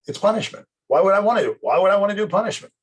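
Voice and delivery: high, whining complaint; whiny student. Retold or imitated. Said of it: "student complaining".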